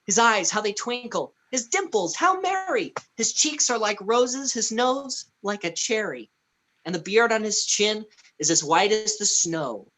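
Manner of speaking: lightly theatrical storybook verse; verse recitation. Acted. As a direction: read it like a Christmas poem. Recites a verse describing his character.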